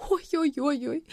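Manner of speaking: high moaning oy-oy-oy; высокий стон. A narrator's reading. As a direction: groan it in pain. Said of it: "простонала Фая".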